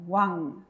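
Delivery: slow "wang" ending in a nasal ng; Korean syllable wang. Shown as a demonstration. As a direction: draw out "wang" so the ng rings. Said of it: "¿Cómo va a sonar?".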